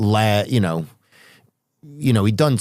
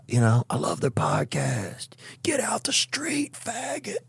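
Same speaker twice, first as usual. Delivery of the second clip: mock New York heckle; 10 semitones higher, 8 dB quieter than usual. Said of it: "people are saying stuff at you and yelling".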